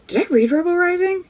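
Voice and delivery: normal talking voice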